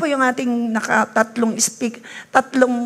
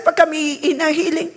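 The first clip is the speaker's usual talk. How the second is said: ordinary talk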